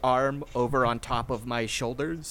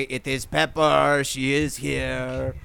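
drawn-out announcement; 4 dB louder, slower than usual. Acted. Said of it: "and I say".

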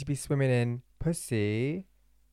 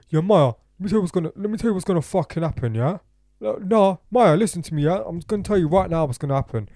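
loud, high, fast laddish rant; mocking drunk Jeevan; 4 semitones higher, 6 dB louder, faster than usual. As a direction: ham up a pushy drunk mate. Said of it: "I didn't say it like that".

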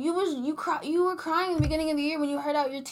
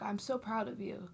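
tender mock whisper; whispered praise; 3 semitones lower, 13 dB quieter than usual. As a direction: breathe it out like a secret compliment. Imagined praise to boys at prom.

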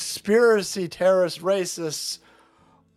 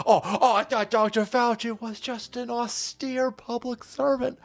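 sarcastic; 6 semitones higher than usual. Acted. Sarcastic mock admiration.

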